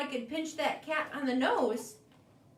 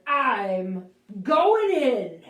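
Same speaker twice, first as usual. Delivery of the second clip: determined charge; 3 semitones lower, 9 dB louder, much slower than usual. Acted. Bird charges bear.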